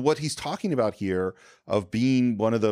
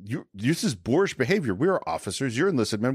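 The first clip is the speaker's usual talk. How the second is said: a hint of a stern officer scolding, rising on doing; lightly acted dressing-down, rising to a sharp question at the end; mock officer's rebuke; 4 semitones higher than usual. Officer rips into the drunk enlisted man, a lightly acted scold. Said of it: "kinda rips into him".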